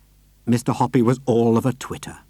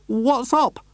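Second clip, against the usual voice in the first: lightly raised call; higher-voiced man calling down; 11 semitones higher than usual. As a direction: call down over the railing. Hoppy calls down.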